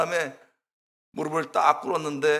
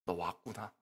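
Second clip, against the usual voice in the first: much lower and much softer, a hushed divine voice; voice of the Holy Spirit; 9 semitones lower, 9 dB quieter than usual. Retold or imitated. Preacher voicing God welcoming him home, low and hushed. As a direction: breathe it like God welcoming a long-awaited son. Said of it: "저를 탁 마음속에 이 충격을 줬어요".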